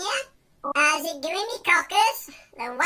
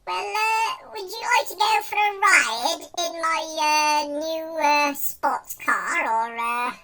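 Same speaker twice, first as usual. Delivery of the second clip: hesitant mock posh gent; halting invitation in a put-on posh accent; slower than usual. Man offering a sports car ride, posh accent. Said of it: "using my posh accent for this one".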